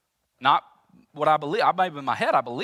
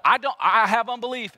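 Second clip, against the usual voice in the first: mock despair; 11 semitones higher, 11 dB louder than usual. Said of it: "We just go to".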